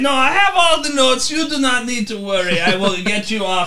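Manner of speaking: high, loud start easing down; blustering lawyer character. Acted. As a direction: reassure the client with theatrical confidence. Player plays the lawyer.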